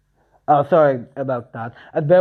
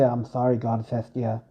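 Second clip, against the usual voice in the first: ashamed apology; 3 semitones lower, 4 dB quieter than usual. Acted. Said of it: "hang his head in shame".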